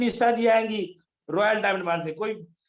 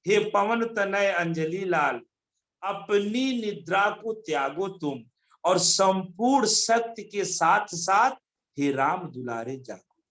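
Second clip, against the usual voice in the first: verse recitation; slower than usual. Acted.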